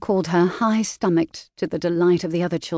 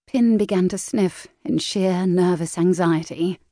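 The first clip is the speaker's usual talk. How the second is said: ordinary delivery, nothing marked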